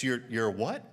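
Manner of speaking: puzzled question, rising at the end; baffled reaction. Retold or imitated. Baffled Canadians questioning the Southerner, puzzled. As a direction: stammer it in mock disbelief. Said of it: "looked at me like I had two heads".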